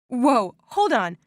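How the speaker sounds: slowed, stunned pushback; gasping. Retold or imitated. Linda gasping as the truth about her dad lands. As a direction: stop her short, unsure. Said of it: "Linda gasped".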